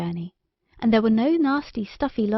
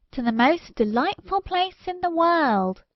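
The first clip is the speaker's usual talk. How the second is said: bouncing ball; 7 semitones higher than usual. A narrator's reading. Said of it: "it answered with a sparkling green and red smile".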